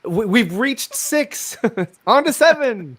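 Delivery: a lightly voiced telethon host; bright, upbeat fundraiser announcement. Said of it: "It's like a telethon".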